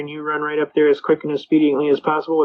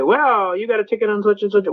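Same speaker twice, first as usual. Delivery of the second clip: higher-pitched mock judge; imitated judge, pitched up; judge butting in; 5 semitones higher than usual. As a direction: jump straight in as an officious judge. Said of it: "the judge bips off right away".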